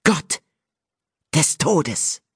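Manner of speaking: high, slow oracle voice intoning fate; solemn prophecy. A narrator's reading. Nymph Ewan proclaiming a prophecy by the sea, high and solemn. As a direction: chant it like an entranced seer, pitched high.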